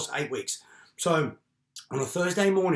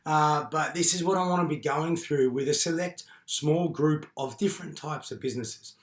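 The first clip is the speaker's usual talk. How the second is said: hoarse voice. Real, not acted. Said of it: "So excuse my voice, I've just had bronchitis".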